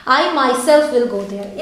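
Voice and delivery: slow, weight on "myself"; emphatic teaching demo; stress on myself. Shown as a demonstration. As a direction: insist with "myself". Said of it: "मैं जोर देके बोल रही हूँ".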